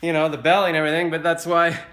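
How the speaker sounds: animated retelling of a self-mocking elevator gag; excited retold joke. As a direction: sell the punchline like a stand-up. Retelling his own elevator joke.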